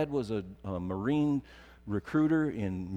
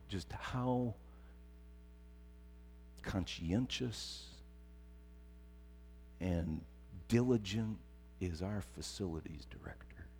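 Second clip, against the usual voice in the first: sly sarcasm; 4 semitones lower, 12 dB quieter than usual. Acted. Joking praise of facilities director.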